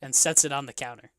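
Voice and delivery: slow, measured scene description; game master narration. Acted. Game master describing the bartender serving mead, measured narration. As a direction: narrate each action deliberately.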